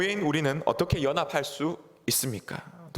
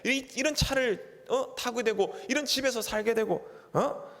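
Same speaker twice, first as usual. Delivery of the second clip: a husband's indignant lecture climbing higher; scolding husband; 5 semitones higher than usual. Retold or imitated. Pastor voicing a husband berating his wife, rising indignant. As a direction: brag then nag, pitch rising toward the end. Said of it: "남편이 아내에게 얘기합니다".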